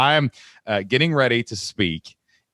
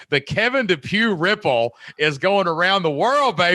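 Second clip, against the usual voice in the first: excited praise; 10 semitones higher than usual. Real, not acted.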